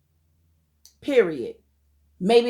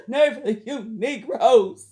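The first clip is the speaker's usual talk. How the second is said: laughing scorn; much slower than usual. Real, not acted. Laughing disbelief at men.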